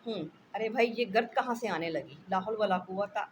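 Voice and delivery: a husband, startled by dust, calling out loudly. Acted. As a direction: jump in surprise and raise the voice. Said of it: "मियाँ चौंक कर".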